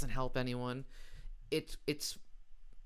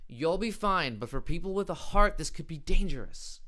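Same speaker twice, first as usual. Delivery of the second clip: higher, louder impression of a blustering president; mock Trump voice; 5 semitones higher, 6 dB louder than usual. Comedian mocking the president, loud and pompous. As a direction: ham up the politician's warning. Host mocks Trump quote.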